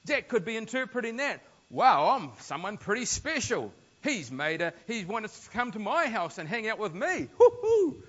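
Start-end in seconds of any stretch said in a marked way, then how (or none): 1.7-7.3 smug self-important. Retold or imitated. Zach's smug inner thoughts voiced. 7.4-8.0 very high, loud gleeful hoot; gleeful whoop. Retold or imitated. Zach gloating whoop.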